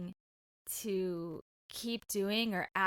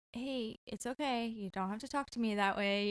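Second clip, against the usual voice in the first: acting out a calm, gentle reassurance; 3 semitones higher than usual. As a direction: let it go calmly, without taking offense. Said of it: "and I'm calm".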